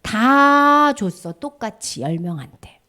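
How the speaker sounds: God speaking. Acted. God tells the children only one remembered, gently voiced God. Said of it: "하나님 말씀하셔".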